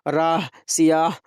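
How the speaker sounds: राह, सियाह slow, with the final h pronounced; sounded final h. Shown as a demonstration. Teacher giving examples, राह, सियाह with h sounded. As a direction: let the h be heard in राह, सियाह. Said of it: "वो हा जो तलफ़ुज़ में आती है".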